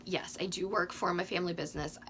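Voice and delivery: slightly hoarse, losing voice. Real, not acted. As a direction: talk through a tired, hoarse throat. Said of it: "Sorry, I'm losing my voice".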